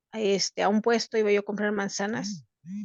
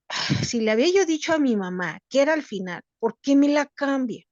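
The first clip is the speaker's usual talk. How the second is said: annoyed; 4 semitones higher than usual. Retold or imitated. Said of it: "ya voy molesta".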